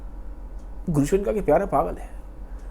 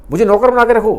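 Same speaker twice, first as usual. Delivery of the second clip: pleading lover; 4 semitones higher, 5 dB louder than usual. Retold or imitated. Dimitri begging at her feet.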